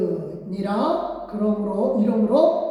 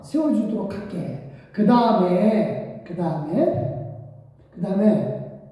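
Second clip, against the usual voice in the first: God's sarcastic reply. Acted. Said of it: "이렇게 하시게 됩니다".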